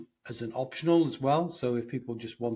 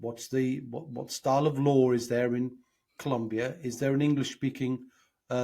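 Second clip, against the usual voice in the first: ordinary delivery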